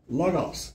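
"logos" with extra weight on "-gos"; stress on last syllable. Shown as a demonstration. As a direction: lean on the final syllable of "logos". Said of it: "I'm emphasizing the last syllable".

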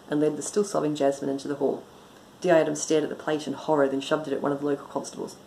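brisk, even audiobook reading; story narration. A narrator's reading. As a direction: read the story aloud with dry composure. Reads own story aloud.

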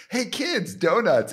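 A singer calling out. Retold or imitated. The singer calling his kids over to the donuts, high loud call. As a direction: shout it across the crowd to the children. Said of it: "Ray instantly went".

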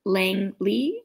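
"Langley" slowly, ending like Hayley; taught pronunciation. Shown as a demonstration. Teaching friend the name, "Langley" slowly in two parts. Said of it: "the little ending of my name".

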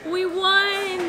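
high triumphant cry; excited. Real, not acted. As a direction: celebrate the win. Celebrating a trivia win.

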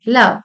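लव्ह with a short uh vowel, not loh; लव्ह rhymes with glove, no long o; लव्ह said luv; love, not long o. Shown as a demonstration. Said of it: "इथे लो होत नाही".

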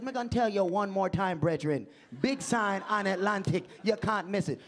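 insistent Jamaican patois; Jamaican accent. Retold or imitated. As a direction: repeat directions like an impatient Jamaican promoter. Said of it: "messing with some Jamaicans".

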